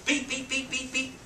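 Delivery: high, rapid run of beeps; imitated pager beeps. Storyteller's pager goes off one day, high beeping. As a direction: mimic a pager suddenly going off.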